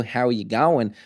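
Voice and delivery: imitated Aussie greeting; Australian accent. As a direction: put on an Australian accent casually. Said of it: "Australian accent".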